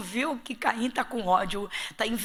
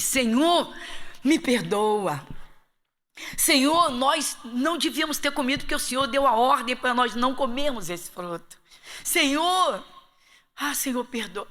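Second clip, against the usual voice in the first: pleading Adam; 2 semitones higher, 3 dB louder than usual. Pretend. Pastor imagines Adam begging God, pleading louder. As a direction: beg forgiveness like a repentant Adam.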